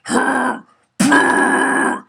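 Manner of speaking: very high, loud yelped hey; high squeaky hey. Shown as a demonstration. Showing the Pee Wee starting point, high squeaky yelp. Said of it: "when you do it like that".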